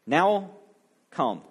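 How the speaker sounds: measured, solemn Bible reading; scripture reading. Acted. Preacher reading Exodus aloud to the church, solemn and measured. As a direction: read the Exodus passage to the congregation, solemn reading voice.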